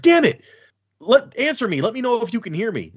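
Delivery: desperate shout. Acted. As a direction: shout up at an unseen voice. Dalinar shouting at the voice.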